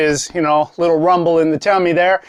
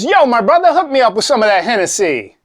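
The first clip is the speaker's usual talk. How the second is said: snowman bro voice; 5 semitones higher than usual. Acted. Snowman orders at bar.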